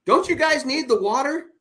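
high, loud incredulous question; exasperated retort. Retold or imitated. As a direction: throw the question back, exasperated. Retorting to complaining mom.

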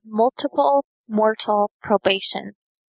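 unhurried, separated words; slow and careful. Shown as a demonstration. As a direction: spell out the phrase slowly, word by word. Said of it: "Say that three times fast".

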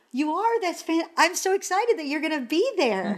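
high, gushing retold delight; excited greeting. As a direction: act out being thrilled to greet a star. Retells greeting the star on arrival.

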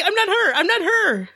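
high-pitched pleading through laughter; squealed, playful plea to be spared; laughing mock protest. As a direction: protest your innocence, half laughing. Laughing protest at co-host's stern tone.

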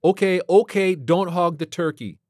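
wry space pilot; brisk pilot voice. Acted.

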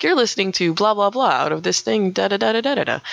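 lightly imitated station ID patter; a hint of announcer voice, trailing into filler syllables; radio station announcer. Explaining station identifiers to the host, light announcer imitation. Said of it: "why radio stations are like".

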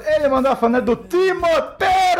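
high, booming-out announcement of a name; full-power voice. Real, not acted. Co-host announcing a fan art subject with full vocal power. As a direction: build to a big high finish on the name. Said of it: "com toda a potência da voz".

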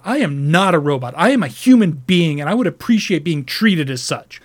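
mild replay of snapping back; retold snap. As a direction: customer agent losing his cool, mildly replayed. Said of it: "that was not my customer service voice".

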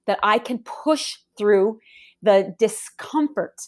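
usual speaking voice

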